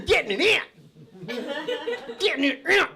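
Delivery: high, loud cheering hype; hammed-up hype-man clerk yell; super-pumped clerk. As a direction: cheer him on at full pitch. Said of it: "He was super pumped".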